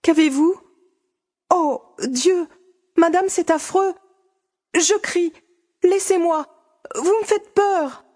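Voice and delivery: frightened cries. Acted. Fanny crying out against the countess's embrace, frightened. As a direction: pull away in rising panic. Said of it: "les baisers étouffaient ses cris".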